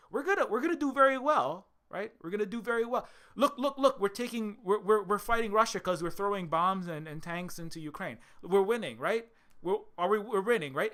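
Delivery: high, loud mock boasting with a laugh; mocking smug elites. Mocking Europeans who think they are winning, high and loud. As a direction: ham up the cocky Western elites cheering themselves on.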